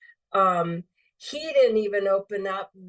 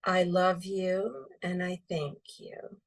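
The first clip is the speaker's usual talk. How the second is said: unhurried, sincere closing words; slow, sincere prayer; 3 dB quieter, slower than usual. Shown as a demonstration. Closing the Ho'oponopono prayer for the audience, slow and sincere. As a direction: offer the thanks slowly and gently. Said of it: "feel the energy of the words".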